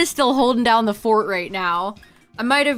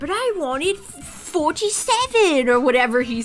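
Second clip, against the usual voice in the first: put-on spoiled kid whine, higher pitch; 5 semitones higher than usual. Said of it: "I'm trying to imitate Dudley from Harry Potter".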